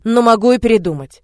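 ordinary delivery

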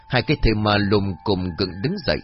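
plain reading voice

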